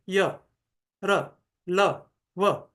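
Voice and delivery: य र ल व said gently, little air; soft semivowels. Shown as a demonstration. Teacher contrasting semivowels with stops, softly. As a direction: let each sound glide out softly. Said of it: "उतना forcefully बाहर वायु नहीं आ रही है".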